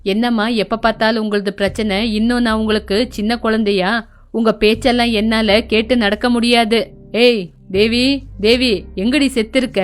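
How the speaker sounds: a surly husband shouting for his wife; voiced drunk son.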